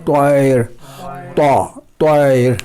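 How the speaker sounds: طائر with a short, single-beat ی and a light ر; Arabic tair. Shown as a demonstration. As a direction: drawl طائر out slowly, syllable by syllable. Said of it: "پہلا لفظ طائر".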